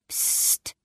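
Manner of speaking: breathy hush, very soft; grandmother's urgent whisper; grandma whispering. Acted. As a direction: shush the room like a careful grandma. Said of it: "flüsterte die Oma".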